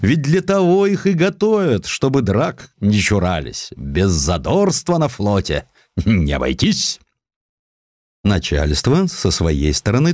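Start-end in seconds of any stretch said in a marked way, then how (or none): 0.0-7.0 wise reasoning superiors. A narrator's reading. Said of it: "мудро рассуждая". (слегка сыгранный рассудительный начальник)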